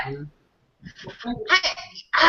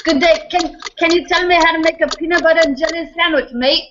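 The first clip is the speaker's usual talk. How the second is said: higher-pitched attempt at an Australian accent; 5 semitones higher than usual. Answering the host's accent punishment, Australian accent. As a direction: put on a playful Aussie accent. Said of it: "in an Australian accent".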